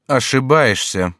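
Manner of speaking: growing coldness. A narrator's reading. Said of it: "с возрастающей холодностью".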